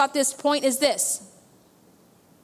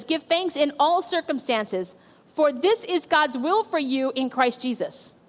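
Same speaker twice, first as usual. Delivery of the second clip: slow, measured reading of the verse; scripture reading. Shown as a demonstration. Pastor reading scripture to the church, slow and measured. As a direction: read the verse slowly. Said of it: "verse eighteen says".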